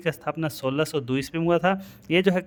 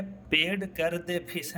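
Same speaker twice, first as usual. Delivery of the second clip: "पेड कर दे फीस" read slowly, word by word, softer; 6 dB quieter, much slower than usual. Shown as a demonstration. Teacher shows students how not to read "पेड कर दे फीस", word by word. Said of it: "ऐसे थोड़ी पढ़ेंगे".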